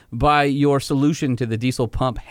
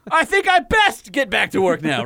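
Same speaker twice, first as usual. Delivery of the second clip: put-on lighter Southern accent; 7 semitones higher than usual. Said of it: "that's still Southern".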